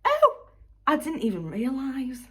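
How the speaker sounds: high, airy surprise of a careless owner; mock-innocent high voice, a woman who never noticed her dog was gone; clueless dog owner. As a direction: play the dog owner as shockingly oblivious. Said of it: "She goes".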